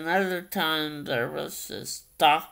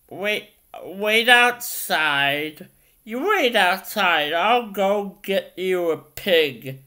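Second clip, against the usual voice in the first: lightly imitated Southern man, louder; Southern accent; 5 dB louder than usual. Retelling what he thought a man told his wife, mild Southern accent. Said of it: "this guy was really southern".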